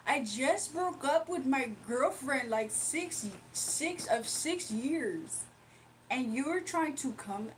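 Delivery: put-on slow, drawn-out Canadian accent. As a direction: lightly imitate a Canadian guy. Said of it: "let me try to do the Canadian accent".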